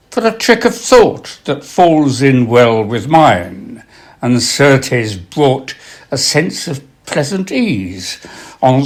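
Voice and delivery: slow, measured reading of a sonnet; poem recital. Acted. Reciting a nineteenth-century love sonnet aloud, slow and measured. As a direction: linger on each line with long pauses.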